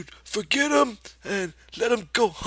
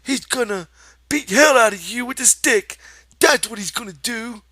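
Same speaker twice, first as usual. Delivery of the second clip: high, loud contemptuous shout; shouting rabbit; 10 dB louder than usual. Acted. The rabbit rants at Lenny, loud high shout. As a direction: rant at him.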